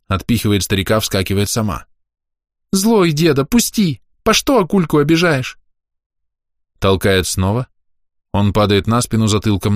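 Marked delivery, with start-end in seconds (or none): 2.7-5.6 put-on little girl shouting at her grandfather; angry child. A narrator's reading. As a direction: shove him off with the words. Girl pushing the old man away.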